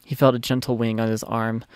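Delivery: normal talking voice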